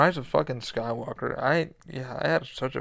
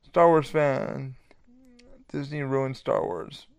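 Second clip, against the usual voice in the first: slow meme reading; 3 dB louder, much slower than usual. Shown as a demonstration. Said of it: "it's gonna go with Luke".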